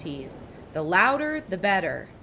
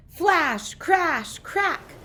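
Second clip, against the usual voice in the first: dramatic; 11 semitones higher, 4 dB louder, much slower than usual. A narrator's reading. Lightning strikes the mast.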